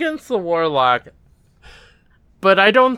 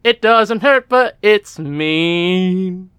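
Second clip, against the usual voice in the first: put-on Cockney accent; much slower than usual. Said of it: "trying to be a Cockney English accent".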